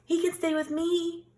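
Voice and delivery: very high chirpy bird voice; trilling bird. A narrator's reading. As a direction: trill it out eagerly like a songbird. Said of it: "trilled Bird".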